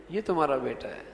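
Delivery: mild grievance; complaining tone. Shown as a demonstration. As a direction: report the child's misdeed to the parent. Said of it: "یعنی اس کی شکایت لگانے لگا".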